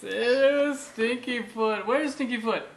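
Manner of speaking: mock grossed out for baby; playful mock disgust.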